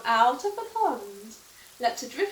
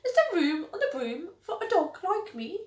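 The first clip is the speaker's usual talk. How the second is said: lightly raised, eager little dog; cute dog voice; 5 semitones higher than usual. Acted. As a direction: ask sweetly like a hopeful puppy. Dog character voice in story.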